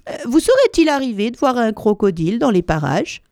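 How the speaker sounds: put-on a hesitant, courteous child's question; polite question. Elephant child politely asking the crocodile, hesitant. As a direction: ask timidly and politely. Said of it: "avec une grande politesse".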